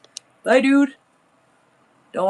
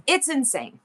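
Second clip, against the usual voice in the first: whispered in awe; awed whisper; 6 semitones higher than usual. Real, not acted. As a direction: let it slip out as a hushed whisper. Awed aside about rivals.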